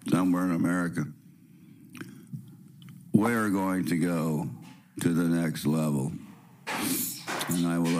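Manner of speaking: hoarse from the sniffles; raspy voice. Real, not acted. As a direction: speak through a raspy, stuffy voice. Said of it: "excuse me for my raspy voice".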